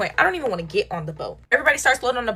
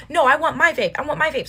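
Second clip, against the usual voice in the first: high, whiny mock pout; 6 semitones higher than usual. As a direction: imitate a friend sulkily insisting. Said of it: "she's over there pouting".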